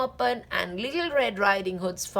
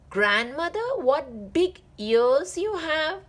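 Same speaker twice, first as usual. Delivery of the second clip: gasping; 6 semitones higher than usual. Acted. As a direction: gasp it out, pitch rising. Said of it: "gasped Little Red Riding Hood".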